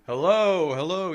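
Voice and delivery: high, loud searching shout; retold scream. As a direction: re-enact hollering to find somebody. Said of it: "we're just screaming".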